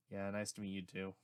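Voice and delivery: flat, even monotone voice. Acted. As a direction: say it in a dull monotone. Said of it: "he said in a monotone voice".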